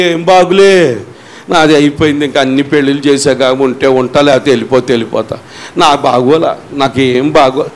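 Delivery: low, mock weary moan of giving up; hopeless grumbling. Preacher mocks a despairing believer on the phone, low weary grumble. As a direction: voice a defeated complaint, sinking low. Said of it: "అసలు ఇప్పుడు అలా పలకకూడదు".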